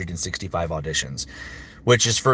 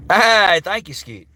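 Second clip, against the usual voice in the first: put-on Australian accent; 5 semitones higher, 3 dB louder than usual.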